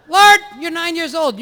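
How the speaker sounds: high, sing-song sermon voice; droning priest. Acted. Parody priest sermonizing to his flock, high and nasal-free drone. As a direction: drone on to fill the hour.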